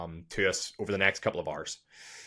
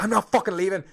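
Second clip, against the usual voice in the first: raised, high-pitched mock rallying cry; defiant film quote; 10 semitones higher, 6 dB louder than usual. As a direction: imitate a defiant refusal into the mic. Imitates defiant film scene.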